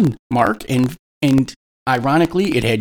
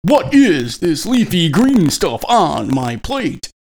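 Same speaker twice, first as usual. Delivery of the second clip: slow, dramatic halting delivery; overacted starship captain; William Shatner impression; 4 semitones higher, much slower than usual. Shown as a demonstration.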